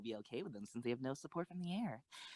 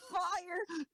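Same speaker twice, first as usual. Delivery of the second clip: loud, much higher firing command; shouted order; 5 dB louder than usual. Acted. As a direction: bark the fire order. Ordering gun to fire.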